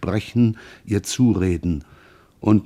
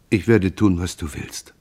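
mildly resigned, fading at the end; submissive, childlike. Acted. Mother yields to her son, meekly. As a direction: give in meekly, letting the voice drop away. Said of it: "sagte sie ergeben wie ein Kind".

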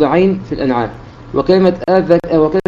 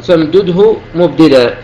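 reciting verse; slower than usual. Shown as a demonstration. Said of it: "قال".

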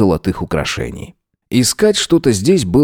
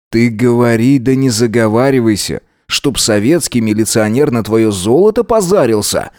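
ordinary delivery

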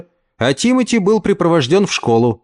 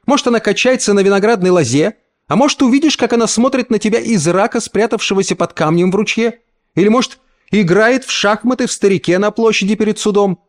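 slap-like retort; 8 semitones higher than usual. A narrator's reading. Mother lashes the uncle with mocking answers. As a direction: strike him with every word. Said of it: "словно дала пощёчину".

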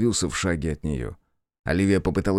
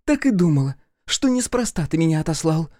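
barge in tipsy and mocking, voice pitched up; drunk daughter; 10 semitones higher than usual. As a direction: brazen drunk young woman calling out. Drunk daughter accuses father.

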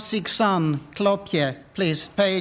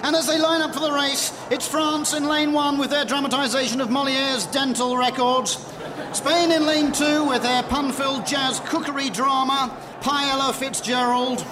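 sports commentary; 4 semitones higher than usual. Acted. Commentating the race lanes.

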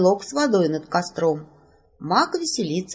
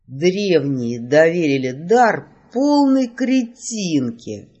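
slow, weary grumble of a fed-up mage; exasperated mage; 2 semitones lower, 3 dB louder, much slower than usual. Acted. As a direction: drag the insult out in despair. Mage exasperated, clutching his head. (маг медленно и устало ворчит на героиню)

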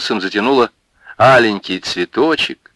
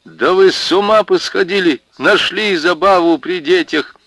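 much higher, louder protest; indignant protest; 10 semitones higher, 3 dB louder than usual. Acted. Марья protesting at the women, indignant. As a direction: push them off indignantly.

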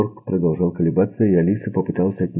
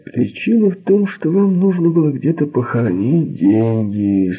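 Sorgenfrey holding forth; 6 semitones higher, 3 dB louder than usual. A narrator's reading. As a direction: press the accusation in a raised voice.

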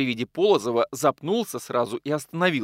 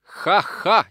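sarcastic laugh; 7 semitones higher, 5 dB louder than usual. Acted. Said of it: "язвительно заметил".

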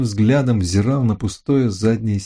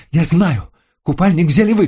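high, loud furious accusation; furious shout; 9 semitones higher, 3 dB louder than usual. A narrator's reading. Lucille accuses the narrator of taking the swimsuit, furious. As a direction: rage at him, certain. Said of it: "в бешенстве воскликнула она".

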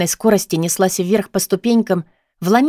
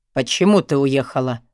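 much lower cold question; an icy boyfriend demanding why; cold male voice; 6 semitones lower than usual. A narrator's reading. Boyfriend on the phone, low and cold. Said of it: "холодный вопрос".

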